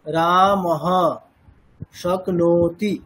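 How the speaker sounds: রামহ spoken with a pause before শক্নোতি; separated pronunciation. Shown as a demonstration. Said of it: "দেখুন, আমি যদি এরকম বলি".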